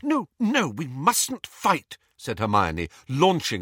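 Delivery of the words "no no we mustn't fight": high, urgent peacemaking; anxious pleading. A narrator's reading. Hermione launching herself between the boys, pleading high. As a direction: plead with them, stretching the last words.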